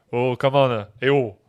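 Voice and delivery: loud southern French exclaiming; southwest French accent. Shown as a demonstration. Mimicking locals back home, loud southwest French accent. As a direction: holler it with a southwest France accent. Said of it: "and Southwest, where I come from".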